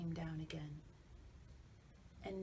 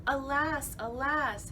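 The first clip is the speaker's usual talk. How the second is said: lament; 7 semitones higher, 7 dB louder than usual. A narrator's reading. Narrator laments.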